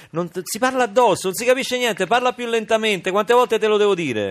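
high, loud scolding nagging; shrill scolding Italian mother. Acted. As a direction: scold him like a shrill nonna. Grandma scolding grandson.

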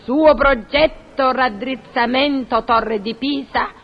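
slow, measured word-by-word recitation; telegram recital. Acted. Portiera reciting the telegram from memory, slow and measured. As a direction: recite it like an official dispatch, slowly.

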